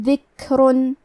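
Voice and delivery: ذکرن with a breathy, weak ک; hams on kaaf. Shown as a demonstration. Teacher showing hams on kaaf to students, breathy kaaf. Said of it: "تو ہم یہ کلمہ کو ایسے پڑھیں گے".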